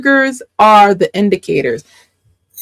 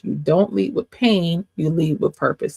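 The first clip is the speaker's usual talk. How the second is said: quieter echo landing on "pain"; softer repeat; 3 semitones lower, 6 dB quieter than usual. Shown as a demonstration. Teacher repeating the point to listeners, softer. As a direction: let "you lead with purpose" sink in gently.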